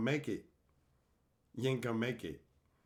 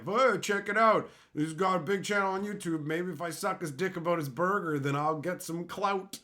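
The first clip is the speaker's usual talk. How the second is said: mock fanboy; 4 semitones higher than usual. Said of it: "dick rider to get".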